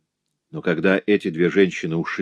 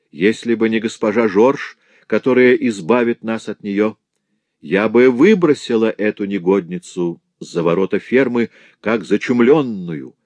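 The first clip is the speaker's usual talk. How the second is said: harsh; 3 semitones higher than usual. Acted. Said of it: "жёстко ответила госпожа Дюбрей".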